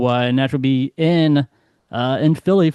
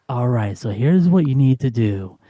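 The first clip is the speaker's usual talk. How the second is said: low sultry chili-cooking pitch; sexy voice; 3 semitones lower than usual. Retold or imitated. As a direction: seduce them with the recipe. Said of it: "your best sexy voice, your best, you know, naughty voice".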